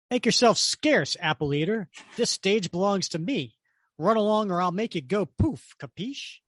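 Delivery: hammed-up comic-book warning; villain's threat. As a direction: shoo him off with mock menace.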